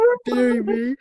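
high, loud squeal of laughing embarrassment; embarrassed laugh. Real, not acted. Apologising to listeners for a bad joke, squealing laugh. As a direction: dissolve into giggles.

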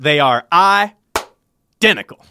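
slow, deliberate "They are identical"; quoting the DA. Retold or imitated. Fan quotes the DA's line, slow and deliberate. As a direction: draw it out like a pompous prosecutor. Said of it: "in the words of the D A".

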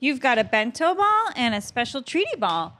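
lightly voiced dog-talk, coaxing the pet. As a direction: coax the dog like a pet owner. Talking to her dog.

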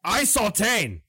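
lizard man with a Southern twang; Southern drawl. Acted. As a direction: drawl out the name slowly. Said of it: "Did he just change his name?".

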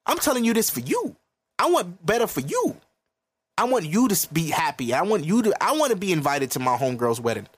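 earnest, caring plea; sincere pleading. Retold or imitated. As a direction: tell her you want better for her. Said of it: "I'm like".

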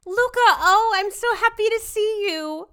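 high, bright spoiled heiress; London voice. Acted. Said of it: "You will be London".

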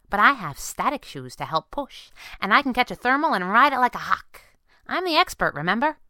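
put-on high-pitched girl hero voice; girl sidekick. Girl answers her worried boss, high and breezy.

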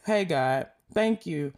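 earnest spoken prayer. Acted. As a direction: pray steadily to God. Leads closing prayer.

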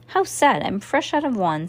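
high mock pity, not sad at all. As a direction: fake sympathy with a smirk. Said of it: "sounding not very sad".

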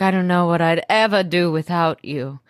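imitated Southern sweetness; Southern accent. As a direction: say it like a Southern lady. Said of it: "why she became Southern".

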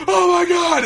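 high, loud mock scream with a laugh; retold scream. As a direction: squeal it like a terrified dad. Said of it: "he's screaming".

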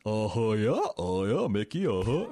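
lightly imitated goofy Southern accent; a dopey, slow Southern uh-huh; goofy Southern drawl. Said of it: "He's doing goofy".

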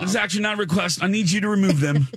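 put-on dismissive British accent. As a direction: rattle it off like a brisk Brit. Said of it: "he was so dismissive".

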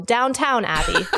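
Downtown Abbey, with an extra t and n in Downtown; playful mispronunciation of Downton as Downtown; Downtown instead of Downton. Shown as a demonstration. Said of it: "as I called it".

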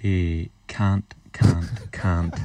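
Scot putting on an Australian accent; attempted Australian accent. Shown as a demonstration. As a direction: try an Aussie accent over a Scottish one. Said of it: "him doing an American, Australian accent".

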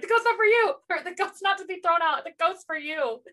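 high, lightly voiced Jesper line; mock Jesper tender. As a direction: say it sweetly in a high voice. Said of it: "And then he's like".

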